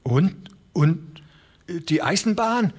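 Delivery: hoher, stockender alter Mann; stammernd. A narrator's reading. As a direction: stammer it out as a rattled old farmer. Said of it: "stammelte der alte Broderson". (stotternder alter Mann, höher)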